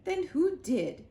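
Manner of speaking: demanding queen. A narrator's reading. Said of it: "the Queen".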